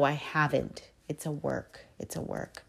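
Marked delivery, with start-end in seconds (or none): 1.1-1.8 a quiet reflective "It's a work."; soft aside. Real, not acted. Repeated quietly for herself. 2.0-2.6 a soft whispered repeat of "It's a work."; whispered echo. Real, not acted. Echoed in a whisper.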